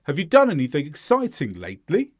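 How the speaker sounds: "lately" rising on its second syllable; brisk question, stressing "done", "exciting", lifting "lately"; question intonation on final word. Shown as a demonstration. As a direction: model question ending upward on "lately". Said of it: "now the emphasis is on the second syllable".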